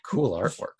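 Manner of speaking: dry mock compliment; sarcastic. Real, not acted. Co-host ribbing the landlord's art in a house listing, sarcastic. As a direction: fake admiration with a sarcastic edge. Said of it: "I'm being sarcastic".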